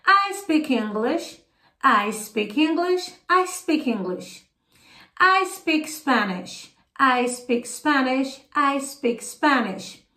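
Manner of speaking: slow, careful English drill sentences; slow each sentence down so the class can repeat. Shown as a demonstration. Teacher leads students through slow sentences to repeat aloud. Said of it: "acompanhe e repita aí comigo".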